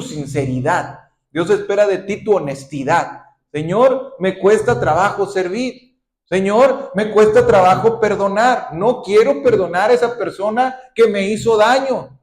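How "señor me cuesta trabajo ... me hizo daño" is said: pleading prayer. Acted. Believer's reluctant prayer acted out.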